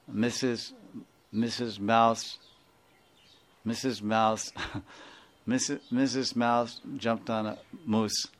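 fumbling slowly through the tongue twister. Shown as a demonstration. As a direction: try the twister carefully, tripping. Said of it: "tongue twister, how you say".

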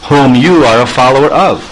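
Krishna begs Lalita for entry, lightly voiced; pleading Krishna. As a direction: coax her to let him in. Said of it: "he's saying".

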